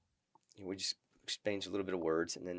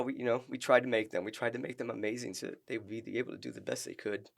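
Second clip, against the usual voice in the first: choked up. Real, not acted. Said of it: "sorry for getting choked up".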